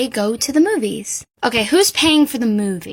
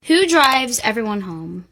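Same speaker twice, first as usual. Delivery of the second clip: normal talking voice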